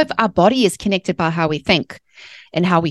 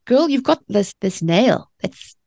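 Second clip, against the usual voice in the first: incredulous; 5 semitones higher than usual. Retold or imitated. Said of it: "I'm like".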